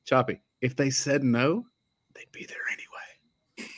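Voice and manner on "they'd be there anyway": whispered aside. Real, not acted. Joke aside about recruits sneaking in.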